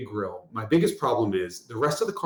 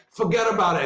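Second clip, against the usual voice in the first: put-on Brooklyn accent; 6 semitones higher than usual. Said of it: "I'm like".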